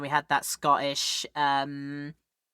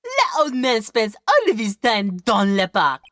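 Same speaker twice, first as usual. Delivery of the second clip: put-on French-accented character voice, slow and higher; slow European accent with lifted pitch; 4 semitones higher, 5 dB louder than usual. A local telling Nick about the old man, European accent. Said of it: "the European voice I'm doing".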